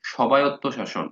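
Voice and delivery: সবায়ত্ত শাসন with the ব sounded as 'sobayotto', slow; spelling-pronunciation. Shown as a demonstration. Teacher sounds out the spelling of স্বায়ত্ত শাসন. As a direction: read স্বায়ত্ত as সবায়ত্ত, slowly. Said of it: "মনে না থাকলে এভাবে পড়বেন".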